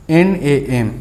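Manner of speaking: N A M said as three separate letters, not the word नाम; spelled letter by letter. Shown as a demonstration. Teacher to students spelling out the abbreviation letter by letter. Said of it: "इसे नाम नहीं पढ़ना है".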